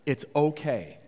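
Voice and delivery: calm, sincere reassurance; mean it, with no edge; genuine. Retold or imitated. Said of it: "it wasn't passive aggressive this time".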